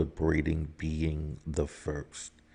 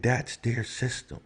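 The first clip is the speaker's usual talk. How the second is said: raised, heated retort; rising outrage, pitched up; indignant; 7 semitones higher than usual. Real, not acted. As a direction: push back hard, voice up. Indignant rant, said twice.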